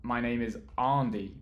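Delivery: ANDY said as "Ahn-dee", long open first vowel; misheard name. Retold or imitated. Streamer quoting what listeners think they hear, ANDY as "Ahn-dee". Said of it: "so they think that I'm, like, saying".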